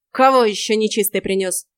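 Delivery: loud, grumpy witch's yell; witch barking. Acted. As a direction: bark it at the door. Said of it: "рявкнула ведьма". (ведьма громко рявкает на стук)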